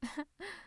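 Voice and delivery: soft, short huff of laughter; short scoffing laugh. Acted. Villain thinking of the jerk attacker, short scoffing laugh. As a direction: let out a small dark chuckle.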